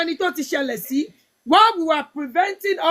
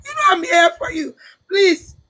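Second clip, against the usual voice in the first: tearful; slower than usual. Real, not acted. Mother tells the host she is there for her, tearful. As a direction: reassure her while holding back tears. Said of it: "I'm getting too emotional".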